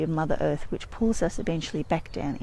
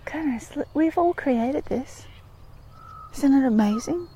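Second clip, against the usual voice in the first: awed; 5 semitones higher than usual. Real, not acted. Marvelling at the view.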